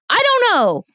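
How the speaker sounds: high, sing-song helpless shrug; helpless I-don't-know. Retold or imitated. To people asking why she can't, a high helpless shrug. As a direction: toss it off, high and lost. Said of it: "And you're like".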